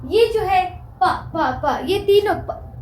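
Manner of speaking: प sounded out slowly and crisply; slow p sound demo. Shown as a demonstration. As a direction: repeat प slowly for learners. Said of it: "पा जो होता है". (धीरे-धीरे प की आवाज़)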